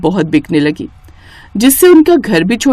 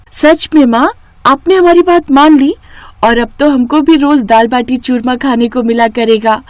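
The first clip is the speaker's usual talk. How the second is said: put-on thrilled child; 3 semitones higher than usual. Children thrilled mother agreed.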